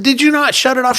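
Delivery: loud, high retold demand; accusing. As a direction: act out an exasperated challenge.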